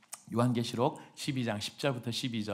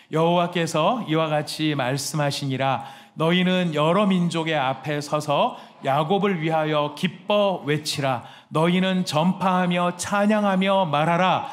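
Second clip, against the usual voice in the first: slow, loud unison Bible reading; scripture reading; 4 semitones higher, 7 dB louder, slower than usual. Real, not acted. Pastor leading the church in reading, slow and loud. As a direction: read it out together, slowly and loud.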